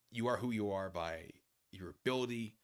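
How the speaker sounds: ordinary talk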